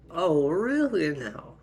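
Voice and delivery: loud, high, swooping disbelief; indignant, sweeping up and down; affronted mother. Acted. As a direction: challenge it with mock surprise. Mother hears she was insulted.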